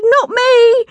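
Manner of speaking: very high, loud panicked shout. A narrator's reading. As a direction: yelp it in a fright. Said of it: "and I shouted".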